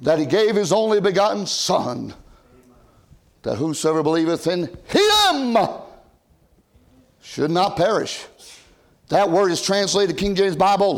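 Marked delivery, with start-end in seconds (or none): 0.0-8.2 slowed-down recital. Shown as a demonstration. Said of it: "We ought to slow it down a little bit and say it".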